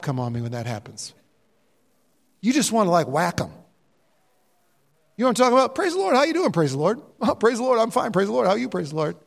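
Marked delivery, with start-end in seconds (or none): 5.7-9.2 Christianese small talk. Acted. Preacher acting out two overly churchy believers greeting, mild mockery. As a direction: rattle off pious filler as a mock greeting. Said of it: "somebody that speaks Christianese".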